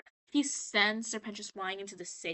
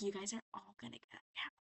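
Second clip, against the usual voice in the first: soft, fast, hushed mock trance voice; hypnotizing; 3 semitones lower, 13 dB quieter, much faster than usual. TV guy hypnotizing his audience, very soft hypnotic murmur. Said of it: "he hypnotized him".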